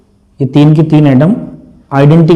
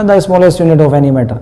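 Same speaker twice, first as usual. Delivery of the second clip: rote definition; 2 semitones higher, much slower than usual. Retold or imitated. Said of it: "मेरे mind में ये नहीं आता".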